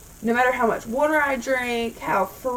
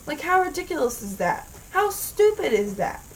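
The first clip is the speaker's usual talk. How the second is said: higher, exasperated rhetorical question; indignant; 5 semitones higher than usual. Real, not acted. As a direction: vent your disbelief at them. Ranting at ER staff.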